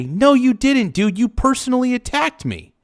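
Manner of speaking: indignant yell at the messages; heated. Real, not acted. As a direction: snap back at him in rising anger. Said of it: "I'm getting heated just reading his".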